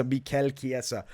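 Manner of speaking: "Mikel" said mee-KEL with the stress on KEL; "Mikel" as mee-KEL, Spanish-style, then "Chiesa" kee-EH-sa; accented Mikel. Shown as a demonstration. Picks name Chiesa, then says "Mikel" as mee-KEL. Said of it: "put a little accent on him".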